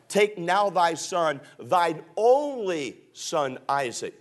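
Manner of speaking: slow reading with "only" drawn out; measured verse, stressing "only"; emphatic scripture reading. Shown as a demonstration. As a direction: lean on "only" in "thine only son". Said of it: "Notice the emphasis here".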